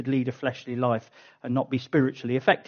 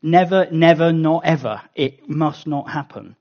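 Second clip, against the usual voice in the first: louder, insistent "Never, never, not ever"; emphatic refusal; 7 dB louder than usual. Shown as a demonstration. Preacher voicing Paul's refusal, loud and emphatic. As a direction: stamp down a refusal. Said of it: "the equivalent of saying".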